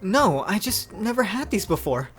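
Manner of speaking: high, simple reply; young Noi. Acted. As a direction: pitch it up for the young hero. Voicing Noi in dialogue.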